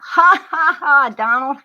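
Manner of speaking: high, put-on cackle aimed at Donald; mocking laugh. Advising Mary to laugh at Donald, mocking fake laugh. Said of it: "Choose to laugh".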